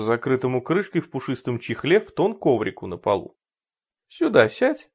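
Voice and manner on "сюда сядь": curt order. Acted. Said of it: "приказал он".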